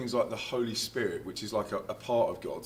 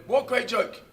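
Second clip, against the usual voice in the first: confused reply; 13 semitones higher, 7 dB louder than usual. Retold or imitated.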